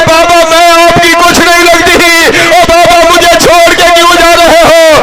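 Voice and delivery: put-on mild weeping of a little girl; weeping child. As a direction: cry out to the father not to leave. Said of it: "رو کے کہا".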